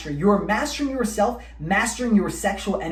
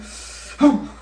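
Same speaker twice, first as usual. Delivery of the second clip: defeated sigh; 6 semitones higher than usual. Retold or imitated. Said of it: "release after straining".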